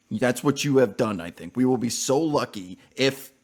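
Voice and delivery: loud, over-the-top doom warning; mock dramatic warning. Streamer warning girlfriend she woke the Kraken, loud mock doom. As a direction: proclaim it like awakening a monster. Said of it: "And I'm like".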